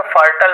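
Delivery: फर्टल said as fur-tul, short second vowel; fertile said fertal. Shown as a demonstration. Teacher showing students how to say फर्टल. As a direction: say फर्टल with a clipped tul ending. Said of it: "इसे फर्टल पढ़ेंगे".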